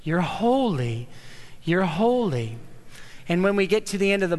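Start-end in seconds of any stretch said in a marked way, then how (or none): 0.0-2.6 reverent proclamation. Acted. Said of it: "seraphim live to constantly proclaim".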